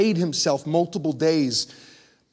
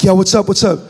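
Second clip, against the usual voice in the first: mock eager answer; 7 dB louder than usual. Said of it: "You're like".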